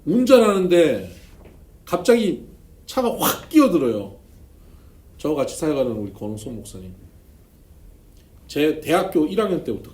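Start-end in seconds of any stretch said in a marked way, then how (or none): 0.0-4.2 loud, higher, slow build; dramatic telling. Real, not acted. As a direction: tell it like a sudden shock. (큰 소리로 극적으로)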